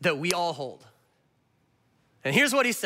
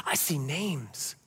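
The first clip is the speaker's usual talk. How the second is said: "I see names" said slowly and softly, low, each word drawn out; slow quiet emphasis; 5 semitones lower, 6 dB quieter, much slower than usual. Shown as a demonstration. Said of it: "repeated line, first take".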